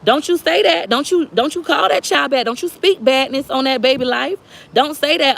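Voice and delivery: high, scolding auntie warning; stern elder cousin. Retold or imitated. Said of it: "And she's like".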